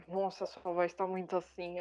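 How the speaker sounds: hint of a mock male voice in a teasing quote; imitated manly voice. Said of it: "elas imitaram uma voz bem de homem".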